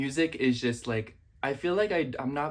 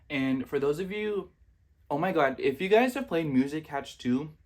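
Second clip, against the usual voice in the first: mouth full; 4 semitones higher than usual. Real, not acted. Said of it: "let me not talk with my mouth full".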